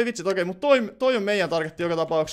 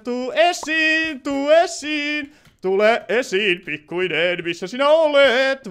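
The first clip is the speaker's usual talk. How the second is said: slow, drawn-out coaxing; teasing hide-and-seek call; 5 semitones higher, much slower than usual. Pretend. Player calling the little one out of hiding, teasing call. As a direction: stretch the words out to lure someone from hiding. Coaxes hidden target to come out.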